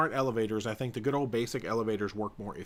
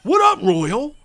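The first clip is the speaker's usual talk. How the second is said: excited cheer; 10 semitones higher, 10 dB louder than usual. Pretend. Mock cheer, toot noises.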